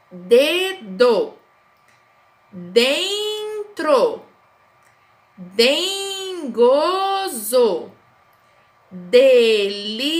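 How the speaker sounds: each word read slowly, with long pauses between; slow reading aloud. Shown as a demonstration. Teacher reading the word list aloud to pupils. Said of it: "A professora vai fazer a leitura".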